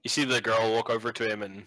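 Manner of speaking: ordinary delivery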